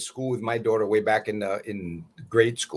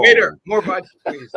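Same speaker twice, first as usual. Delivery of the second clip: hammy diva call; 11 semitones higher, 10 dB louder than usual. Pretend. Joking he's on a roll.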